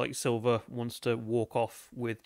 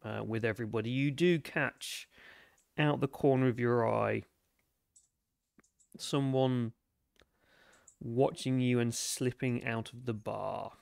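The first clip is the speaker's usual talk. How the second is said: game master narration. A narrator's reading. Game master telling the captain of someone slipping away, measured narration.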